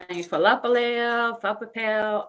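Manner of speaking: imitating mispronunciations "Falapaleo, Fapapel"; "Falapaleo, Fapapel" as botched attempts at the speaker's name; mangled name. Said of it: "people can't really pronounce my name".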